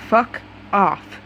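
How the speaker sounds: "Fuck", a pause, then "off", each word stressed; each word emphasized hatefully. A narrator's reading. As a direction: land "Fuck" and "off" separately, with understated hatred. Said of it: "he emphasized each word as it dripped".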